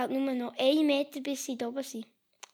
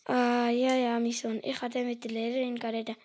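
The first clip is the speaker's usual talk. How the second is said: softer, quick mother reply; 5 dB quieter than usual. Acted. Mother reassuring her son, softer and quick. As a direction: brush it off gently.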